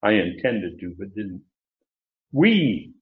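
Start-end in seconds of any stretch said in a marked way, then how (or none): 2.3-2.9 "We" punched out like pounding the pulpit; emphatic we. Shown as a demonstration. Preacher stresses the emphatic we to his class, pounding. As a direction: slam the word "We". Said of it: "pound the pulpit".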